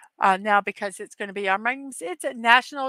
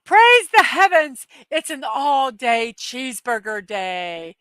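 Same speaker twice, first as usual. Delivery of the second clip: excited exclamation; 2 semitones higher, 6 dB louder than usual. Real, not acted. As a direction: cry it out to the sky in delight. Joyful exclamation about cheeseburger day.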